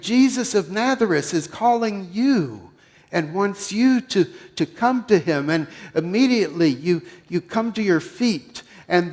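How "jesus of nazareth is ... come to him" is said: excited crowd. Acted.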